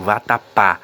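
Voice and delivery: "vatapá" with a loud, open final "pá"; stress on open PÁ. Shown as a demonstration. Teacher giving students an example of the acute accent, stressed open "pá". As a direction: land firmly on the last "pá" of "vatapá", vowel open. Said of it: "o som passa a ser um som aberto".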